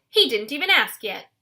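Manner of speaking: loud scolding shout; screaming. A narrator's reading. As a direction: scold her sister loudly.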